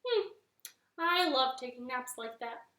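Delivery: slow, stretching frog voice after a nap; sleepy frog. Acted. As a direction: yawn it out, content.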